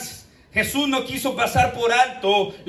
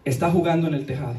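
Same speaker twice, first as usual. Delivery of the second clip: laughing punchline; 7 semitones lower, much faster than usual. Retold or imitated.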